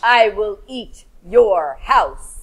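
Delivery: low, slow growling shark shout; mean shark voice. Shown as a demonstration. Teacher models shark threatening the fish's house, shouted. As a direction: roar it at the little fish. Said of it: "In your best shark mean".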